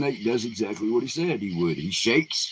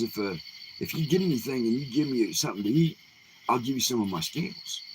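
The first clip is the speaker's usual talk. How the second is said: lightly raised, coaxing snake voice; a hint of a wheedling snake; 6 semitones higher than usual. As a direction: tempt him with a higher, sly offer. Snake bargains with hunter.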